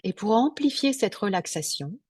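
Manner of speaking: unhurried meditation guide with long pauses; guided meditation. Real, not acted. Yoga teacher guiding listeners into Yoga Nidra, guided meditation. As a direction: lead them gently into relaxation, phrase by phrase.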